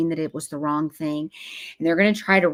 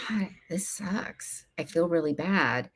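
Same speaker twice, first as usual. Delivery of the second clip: put-on soft whisper of a sad young woman; whispered mock despair; whispered dismay; 8 dB quieter than usual. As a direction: breathe it out, defeated. Voiced woman waking up.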